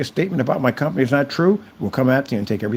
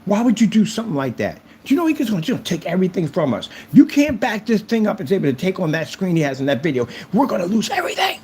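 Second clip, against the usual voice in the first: mimicking scolding wife; 4 semitones higher than usual. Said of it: "your wife is chewing you out".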